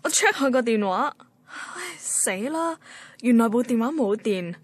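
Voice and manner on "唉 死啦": slow, high and hushed "oh no"; dismayed groan. Acted. Woman realizing her phone died, dismayed. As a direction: sigh it out in sudden dismay.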